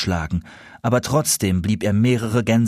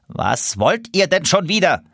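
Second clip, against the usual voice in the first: annoyed; 8 semitones higher than usual. Acted. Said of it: "schien sehr verstimmt zu sein".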